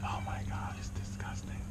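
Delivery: whispered in real disgust. Real, not acted. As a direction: breathe it out, grossed out. Disgusted at the black oil.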